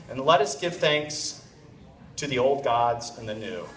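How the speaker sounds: measured grace, sinking low at the end; mock dinner blessing. Fiancé ending the blessing at family dinner, mock solemn. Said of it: "ends the blessing with".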